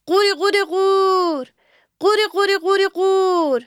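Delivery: high frog croaking "قوری قوری قور" again and again; repeated frog croak. A narrator's reading. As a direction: keep croaking like a frog, high and sing-song. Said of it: "پشت هم تکرار کرد".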